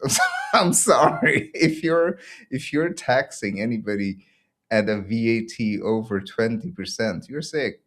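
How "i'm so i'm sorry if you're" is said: higher, louder, breaking into laughter; helpless laugh bubbling through the words; laughing apology. Real, not acted. Mocking tax rates, breaks up laughing.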